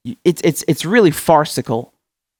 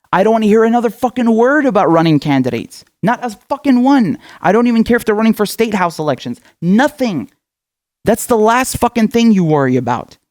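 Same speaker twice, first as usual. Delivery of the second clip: real exasperation, pitched up; fed-up, higher-pitched rant; exasperated scolding; 6 semitones higher than usual. Real, not acted. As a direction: lay down the law, higher and emphatic. Heated rant scolding own audience.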